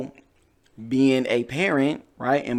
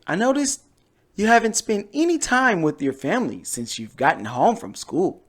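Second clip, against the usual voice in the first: lightly voiced mom, gentle but firm; a hint of a caring mother nudging. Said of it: "my mom voice".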